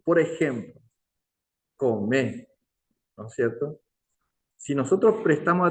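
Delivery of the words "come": "come" with a plain C, a k sound; C pronunciation. Shown as a demonstration. Teacher gives an example with the letter C, careful plain-k "come". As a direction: say "come" with an ordinary front k. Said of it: "que se pronuncia con la C".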